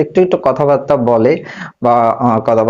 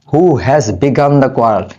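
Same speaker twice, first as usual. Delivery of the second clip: slow model sentence; much slower than usual. Shown as a demonstration. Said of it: "এটা হচ্ছে তুমি".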